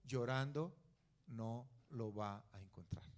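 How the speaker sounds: lightly voiced mother, low and quiet; a hint of a tired mom telling her kid off; gentle mock-scold of a crying child. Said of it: "qué le dice la mamá".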